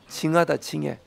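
Jeolla-dialect muttered verdict. Shown as a demonstration. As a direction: show the Jeolla way of grumbling. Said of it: "그런 표현이 있거든요".

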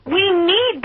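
a hammed-up sob catching on the words; upset caller pleads with the host, voice breaking; mock crying. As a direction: choke up mid-line as if near tears. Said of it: "practically ready for tears".

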